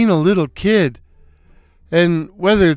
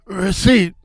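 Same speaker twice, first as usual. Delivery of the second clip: shouted; 3 semitones higher, slower than usual. Acted. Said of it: "I'd had it enough and shouted".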